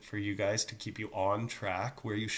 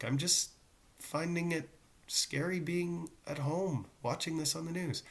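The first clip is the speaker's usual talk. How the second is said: higher-pitched, lightly acted worry; mock nervous kid; 5 semitones higher than usual. Teacher voices a student scared at home, mock nervous. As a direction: play an anxious student, pitched up and hesitant. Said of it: "kids freaking out going".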